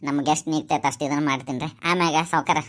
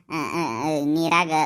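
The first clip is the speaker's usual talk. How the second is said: choked sob; much slower than usual. Acted. Father recalls wife drowning.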